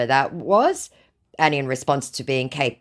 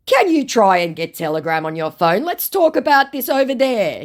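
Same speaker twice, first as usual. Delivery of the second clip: mock scammer voice; 8 semitones higher, 5 dB louder than usual. Woman reading the scammer's message aloud, in a high mock voice. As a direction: ham up the creepy flattery.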